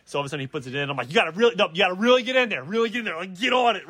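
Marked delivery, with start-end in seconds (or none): 1.1-3.9 urgent coaching. Retold or imitated. Retold coaching on installing the seat.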